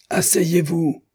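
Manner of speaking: high, barked military command; yelled order. A narrator's reading. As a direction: yell it as a sharp order. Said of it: "hurla le capitaine". (ordre hurlé)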